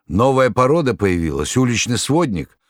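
high-pitched indignant outburst; very angry. A narrator's reading. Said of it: "Маргарита очень разгневалась". (гневно, с возмущением)

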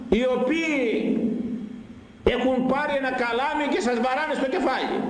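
high, hurt, pleading lament; a grieved father calling his children back; the Lord reproaching people who drove him away; sweet voice of the Lord. Acted. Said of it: "σας κάλεσα με γλυκιά φωνή".

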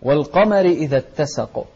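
والقمر with thin "mari", recited clearly; careful unthickened والقمر; light م and ر. Shown as a demonstration. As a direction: keep the end of والقمر light. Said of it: "لا تقول".

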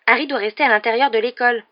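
indignant objection. A narrator's reading. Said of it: "s'indigna Hermione".

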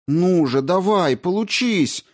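willing the magic to work, voice rising in despair; desperate urging. A narrator's reading. Desperate attempt to open door. (отчаянно, всё выше и выше)

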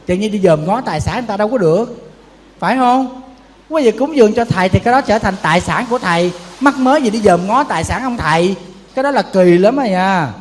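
building from firm to loud, insistent scolding; rising scolding. Real, not acted.

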